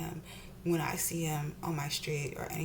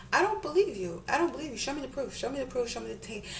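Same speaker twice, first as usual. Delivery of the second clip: higher-pitched, repeated demands; insistent disbelief; 5 semitones higher, faster than usual. Real, not acted. Challenging a friend's asthma attack story, insistent disbelief.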